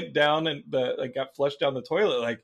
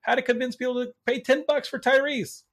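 higher, mocking sarcastic burn; sarcastic zinger; 10 semitones higher, 3 dB louder than usual. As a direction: deliver it as a smug insult. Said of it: "I'd be like".

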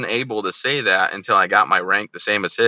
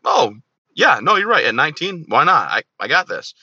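higher-pitched bluffing reply; mock confidence; 6 semitones higher than usual. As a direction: play along, pretending you can handle it. Retelling his own overwhelmed reply.

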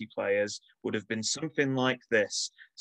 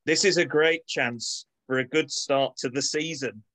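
mock team talk; 5 semitones higher than usual. Reading a halftime team talk.

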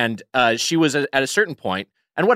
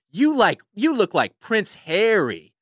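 mock woman on the train; 8 semitones higher, slower than usual. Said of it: "is like".

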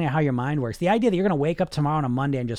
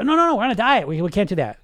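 higher, louder, cutting in with a firm no; firm scolding; 4 semitones higher, 4 dB louder than usual. Acted. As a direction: stop the craving dead, scolding it. Conscious mind scolding the subconscious.

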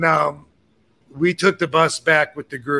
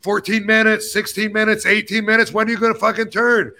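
higher, fast, exasperated complaint; retold yelling; 5 semitones higher than usual. Passenger yelling at the bus driver, exasperated and higher. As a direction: pester the driver with rising irritation.

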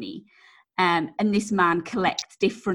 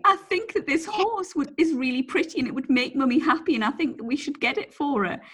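put-on child; 5 semitones higher than usual. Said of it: "Henry was saying".

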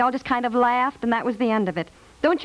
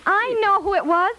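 sudden excited yell; 9 semitones higher than usual. Acted. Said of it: "Yell in my ear".

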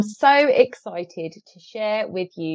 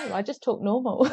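mock protest, laughing through it; 3 semitones higher than usual. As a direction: giggle the words out as a joke. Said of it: "self-quote, protesting about accent".

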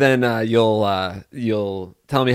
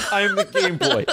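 triumphant squeak; 13 semitones higher than usual. Pretend. Triumphant after winning instantly.

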